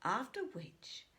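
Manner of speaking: mildly swelling with imagined glory; a touch of a braggart picturing his wedding; grand daydream. Acted. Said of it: "he continued".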